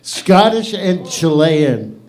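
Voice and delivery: Scottish and Chilean spelled out slowly; announcer repeating a name slowly; slow, careful repeat. Shown as a demonstration. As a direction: say Scottish and Chilean slowly, each word deliberate. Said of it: "excited to know".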